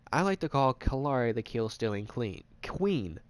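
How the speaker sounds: tripping over the words; stumbling stutter on the phrase. Real, not acted. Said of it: "I have a stutter going on".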